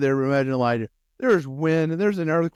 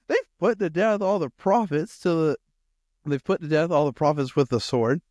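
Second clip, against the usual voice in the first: Elijah's self-righteous protest, a little raised; bold indignation; 5 semitones higher than usual. Acted. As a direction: plead your record with bold attitude. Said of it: "That's exactly the attitude Elijah had".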